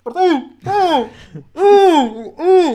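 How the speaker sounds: high, loud long call across the street; drawn-out retold yell; yelling a name. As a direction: shout for Martín to come. Kid yells for owner Martín.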